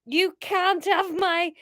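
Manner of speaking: impassioned amateur Scouse monologue, near giggles; hammed-up Scouse. Paul refusing to give up his turtles, hammed-up Scouse. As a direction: swear it solemnly in bad Scouse. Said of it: "Um, Scouse".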